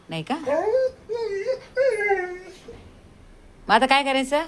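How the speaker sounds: high, loud eager urging of the dog; high eager pet voice, sending the dog to look; excited pet talk. Real, not acted.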